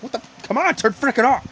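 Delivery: fed-up retold outburst; frustrated. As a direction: snap at a stubborn gadget. Frustrated at his phone.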